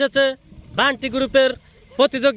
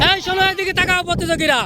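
yelling across the room; 3 semitones higher, faster than usual. Real, not acted. Calling out to swimmers.

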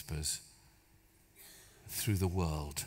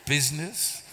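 laughing in disbelief; 4 semitones higher, 7 dB louder than usual. Real, not acted. Disbelief at the whispered instruction.

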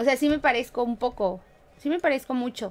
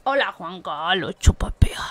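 hushed joke whisper; whispered meme greeting; 6 semitones lower, 7 dB louder than usual. Pretend. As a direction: whisper it like a secret punchline.

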